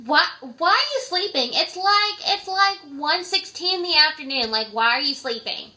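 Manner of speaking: bright nagging caller who woke you; high loud caller voice. Retold or imitated. Friend calling midday, pestering in a high loud voice. Caller scolds sleeping night worker.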